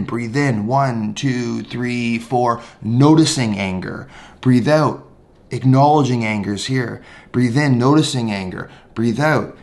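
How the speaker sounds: walk them through it calmly; guided breathing. Shown as a demonstration. Teacher demonstrating noting anger with breath. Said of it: "take that moment in".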